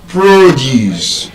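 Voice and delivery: PROduce, stressed on the first syllable; noun stress. Shown as a demonstration. Teacher showing the class the noun, first-syllable stress on "Produce". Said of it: "as a noun, it will be what?".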